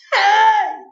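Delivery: high, loud cry for attention; shout. A narrator's reading. Child stuck up on crutches, shouting. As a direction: shout out, pitched well up. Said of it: "I shouted".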